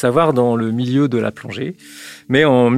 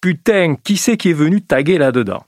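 badly imitated Marseille accent, pitched up; a hint of a diver's Marseille accent, higher; 5 semitones higher, 3 dB louder than usual. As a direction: put on an unconvincing Marseille accent. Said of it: "son accent marseillais que je vais très mal imiter".

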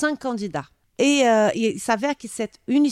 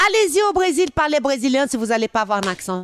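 high, quick challenge to critics, easing at the end; retold retort; 4 semitones higher, faster than usual. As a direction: throw back a playful comeback. Retells her retort to critics. (réplique vive, rapportée)

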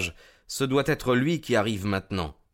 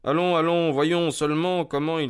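calm; 7 semitones higher than usual. Acted. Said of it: "avec le plus grand sang-froid".

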